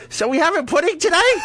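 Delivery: put-on high, comic old-person voice; hospital old-timer. Hospital patient asking everyone about dessert, put-on old voice. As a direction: ask it like a hunched-over hospital patient. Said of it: "I start walking out like I'm hunched over".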